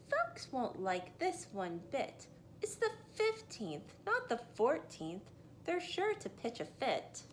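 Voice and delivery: fretting that folks will be upset; worried. Acted.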